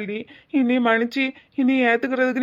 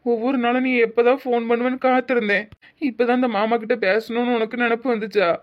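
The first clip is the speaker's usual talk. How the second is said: crying reproach; 3 semitones higher than usual. Acted. Uncle weeping on the phone.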